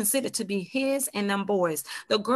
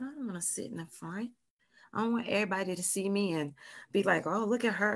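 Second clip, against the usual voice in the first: hushed; 7 dB quieter, faster than usual. Retold or imitated. Hiding at back of church.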